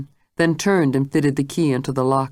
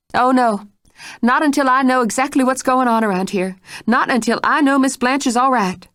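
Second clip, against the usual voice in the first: higher, louder determined voice; stubborn refusal; 9 semitones higher, 3 dB louder than usual. Acted. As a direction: dig in her heels. Mrs Stitt refuses to leave.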